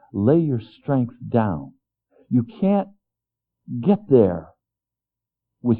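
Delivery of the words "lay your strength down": gentle command. Acted. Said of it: "the Lord is saying".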